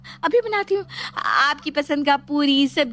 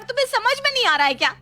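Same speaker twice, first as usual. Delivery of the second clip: agitated urging; 5 semitones higher than usual. Acted. Frightened woman shoos her away.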